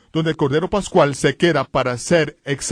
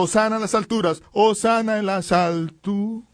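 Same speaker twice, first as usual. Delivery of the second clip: grito imitado; 5 semitones higher than usual. Retold or imitated. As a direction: imitate a crowd's cry, stretching the repeat. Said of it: "y gritando". (aclamación alta que se alarga)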